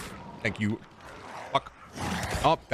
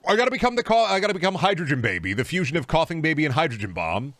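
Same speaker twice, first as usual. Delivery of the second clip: excited; 7 semitones higher, 4 dB louder than usual. Real, not acted. Excited meme declaration while gaming.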